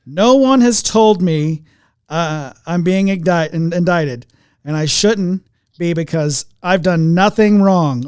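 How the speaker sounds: loud, slowed-down emphatic political impression; Trump voice. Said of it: "I'm gonna use my Trump voice".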